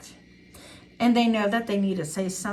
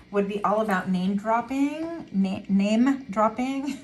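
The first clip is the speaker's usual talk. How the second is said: talking around a retainer; words blurred by a retainer; wearing a retainer. Real, not acted. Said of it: "my retainer's, like, getting in the way".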